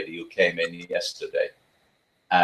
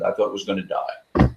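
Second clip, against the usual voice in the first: usual speaking voice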